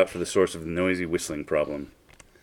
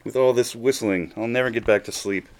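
higher, louder storybook wail; dismayed cry; 5 semitones higher, 3 dB louder than usual. A narrator's reading. Storyteller voices the sleepless Weedle's complaint, dismayed cry. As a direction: lament it as the distressed Weedle. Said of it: "cried the Weedle".

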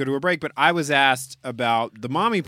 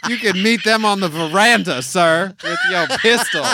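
Southern belle; 3 semitones higher than usual. Acted. Answers as Scarlett-style belle.

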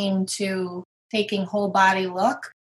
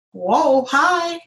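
startled hi; 5 semitones higher than usual. Retold or imitated. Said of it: "I was just like".

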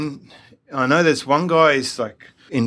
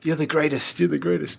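Muhammad Ali; 4 semitones higher, 3 dB quieter than usual. Retold or imitated. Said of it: "It's like the Muhammad Ali jabs".

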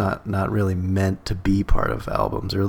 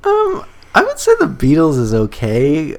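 mock serious advisor; 7 semitones higher, 6 dB louder than usual. Answers the teen in character.

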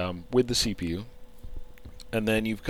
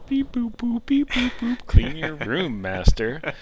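high beeping robot voice; 10 semitones higher, 3 dB louder, slower than usual. Pretend. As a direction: talk like a little robot servant. Playing the sexy robot.

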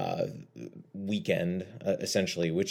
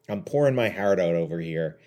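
slips into a slight Canadian accent on "pouring my heart out"; accidental Canadian; 4 dB louder than usual. Real, not acted. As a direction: let a touch of Canadian vowels creep in, unplanned. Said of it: "I just sounded Canadian".

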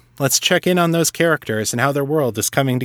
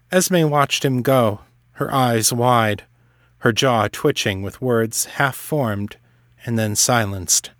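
story narration. A narrator's reading.

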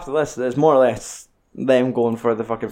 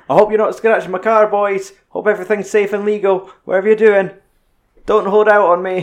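higher, louder, smug taunting voice; imitating the boss taunting the heroes over a monitor, higher and louder; villain over the monitor; 7 semitones higher, 5 dB louder than usual. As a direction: taunt them like a gloating crime boss. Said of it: "like, Owen's, like, voice on the wee monitor".

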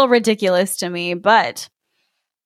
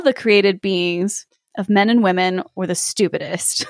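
story narration. A narrator's reading. S0 reads fairy tale aloud.

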